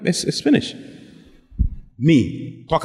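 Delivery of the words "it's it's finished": whispered verdict. Retold or imitated. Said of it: "I told them".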